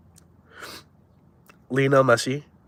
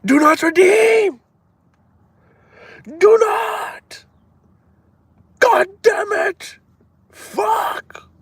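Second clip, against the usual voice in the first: put-on shrill, very high Indian accent, slow and shouted; hammed-up Indian accent, screeched high; Indian scammer accent; 5 dB louder, much slower than usual. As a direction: yell it like an exasperated Indian scam caller. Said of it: "when using that accent".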